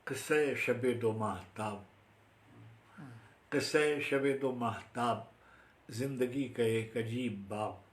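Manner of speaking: measured Urdu verse with weighty pauses; formal mushaira recital; poetry recitation. Acted. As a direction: recite each line as a separate unit, pausing after it. Recites own Urdu poem.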